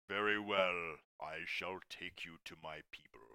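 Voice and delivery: low, grave voice over the comm; deep voice over comm. Acted. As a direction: speak low and solemn through a radio. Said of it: "you hear a deep voice over the comm".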